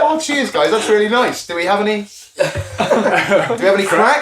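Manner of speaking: high, mock-polite gushing thanks; sarcastic high thank-you; mock grateful thanks. Mock thanks to gift givers.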